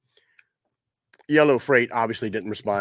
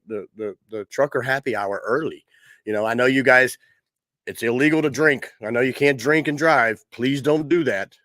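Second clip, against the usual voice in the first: talking around a lit cigar; words round a cigar; cigar in mouth. Real, not acted. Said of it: "to actually light this cigar".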